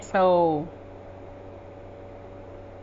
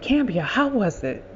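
happy mother; 2 semitones higher than usual. Retold or imitated. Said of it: "she's so happy".

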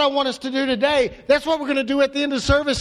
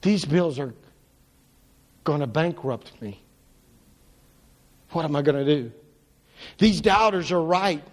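worried; 3 semitones lower than usual. Pretend. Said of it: "does he sound like us?".

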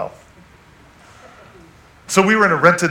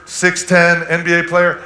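excited emphasis; 7 semitones higher, 8 dB louder than usual. Real, not acted. Excited recap of friend's size.

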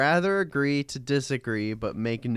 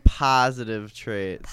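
put-on Chicago accent; 3 semitones lower, 4 dB louder, slower than usual. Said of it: "Good Chicago accent there".

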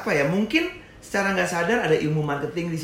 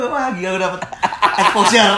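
high laughing exclamation, building louder; laughing mock excitement; 8 semitones higher, 7 dB louder than usual. Retelling a prank call as lucky exposure, laughing excitement. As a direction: build to a loud, laughing punchline.

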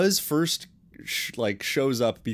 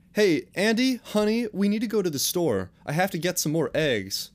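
yelling across the room; 8 semitones higher than usual. Acted. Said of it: "Andy's mom shouted up the stairs".

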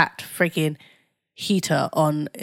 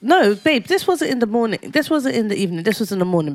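raised insistent; 5 semitones higher than usual. Real, not acted. Correcting husband.

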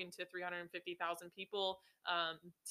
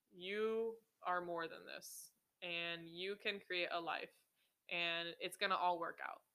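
gentle inner voice; 5 dB quieter, slower than usual. Retold or imitated. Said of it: "this inner voice in me that was like".

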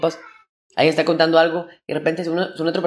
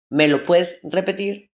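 slow, drawn-out asking again; slow repeat request; slower than usual. Retold or imitated. People asking him to repeat, slower. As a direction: stretch the question out slowly. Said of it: "la gente me dice".

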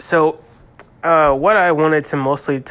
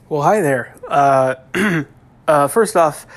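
stuffy nose; 5 dB louder than usual. Real, not acted. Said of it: "nasally or stuffy".

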